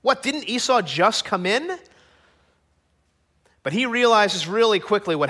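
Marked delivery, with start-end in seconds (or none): 0.0-1.8 puzzled father, rising question; mildly baffled, questioning lift at the end; confused. Acted. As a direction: act out bewildered double-take. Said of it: "confused Isaac is here".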